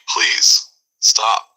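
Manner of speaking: strained whispered please stop; barely speaking. Acted. Furious man barely able to speak. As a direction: squeeze it out, barely holding on. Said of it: "he can barely speak".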